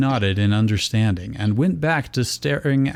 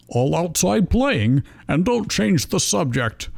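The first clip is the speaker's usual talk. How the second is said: mild scolding; 7 semitones higher than usual. Acted. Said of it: "his tone taking on a scolding note".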